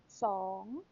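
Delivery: Song with a rising tone, drawn out slowly; modelling Thai "Song" for a class; Thai word song. Shown as a demonstration. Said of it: "What number is it?".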